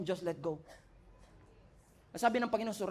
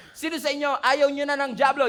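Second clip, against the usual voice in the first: ordinary talk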